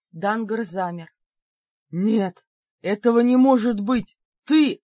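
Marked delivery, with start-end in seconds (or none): 1.9-4.8 shocked realization. Acted.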